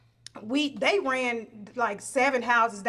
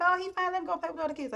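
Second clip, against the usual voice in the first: dismissive; 7 semitones higher, 3 dB quieter, much faster than usual. Retold or imitated. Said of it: "They're like".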